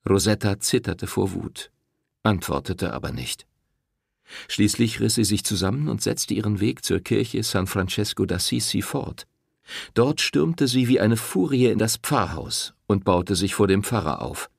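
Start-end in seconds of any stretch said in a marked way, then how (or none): none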